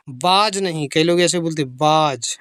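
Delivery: was misread as बाज, with a b sound and long aa; the common mistake बाज, said as a teacher's bad example; wrong pronunciation. Shown as a demonstration. Teacher showing pupils the wrong reading. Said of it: "गलत है ये".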